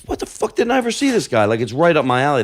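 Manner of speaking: retold incredulous outburst, high-pitched at first; amazed disbelief. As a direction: marvel in high-pitched disbelief, then settle. Retelling his amazed reaction.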